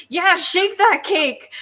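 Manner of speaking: loud, high, drawn-out holler; imitated whooping yell. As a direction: yell it like a raucous cheer. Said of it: "It's when she yells".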